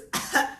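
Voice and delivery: acted gag at a bad smell; short mock cough of disgust; choking cough. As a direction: splutter at the stink. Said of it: "He holds his nose".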